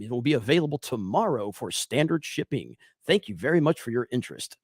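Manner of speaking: mild posh-announcer voice; Proper Jeremy. Shown as a demonstration. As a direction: read it clear and proper, no Southern accent. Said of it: "do Proper Jeremy".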